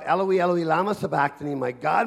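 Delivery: crying out. Acted. Preacher reading Jesus's words from Matthew, mildly crying out. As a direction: call it out, easing off toward the end. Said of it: "He cried out".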